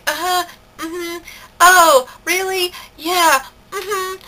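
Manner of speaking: high, drawn-out mock interest; sing-song polite noncommittal murmurs; fake polite agreement. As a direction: humor her with empty uh-huhs.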